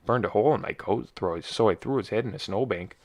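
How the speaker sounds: lightly done northern Minnesota accent, easygoing; friendly northern Minnesota accent. Shown as a demonstration. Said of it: "just a lot of talking like this".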